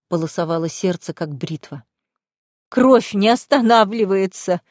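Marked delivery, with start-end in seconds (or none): 2.7-4.6 slow, a touch of a sob; mild tearful wail; sobbing cry. Acted. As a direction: cry the words out slowly. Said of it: "прорыдала Боженко".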